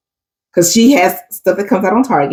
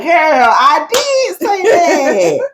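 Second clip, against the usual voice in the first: mock emotional fan; 9 semitones higher, much slower than usual. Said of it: "you'd be like".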